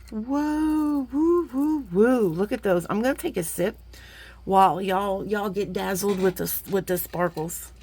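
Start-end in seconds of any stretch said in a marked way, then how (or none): 0.1-2.3 excited. Real, not acted. Sparkle reveal.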